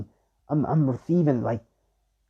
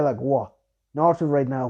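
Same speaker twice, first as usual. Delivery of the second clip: usual speaking voice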